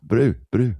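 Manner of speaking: South African accent. Shown as a demonstration. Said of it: "that's the South African stamp".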